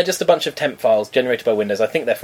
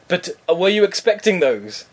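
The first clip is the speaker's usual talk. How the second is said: higher, slow imitation of the scammer; scammer's questioning; 6 semitones higher than usual. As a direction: lightly mimic a leading question. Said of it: "And he said".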